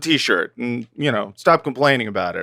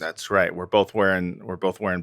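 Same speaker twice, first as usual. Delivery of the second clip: low soft whispered agreement; 6 semitones lower, 6 dB quieter than usual. Acted. Host whispering agreement to his co-host. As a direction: whisper back conspiratorially.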